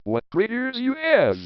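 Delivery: high, wide-eyed exclamation; a child gasping in wonder; amazed girl. A narrator's reading. Girl marvels at grandmother's eyes, pitched high.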